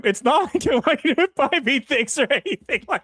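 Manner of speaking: high flustered denial; tsundere. Acted. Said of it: "You had to make him a tsundere?".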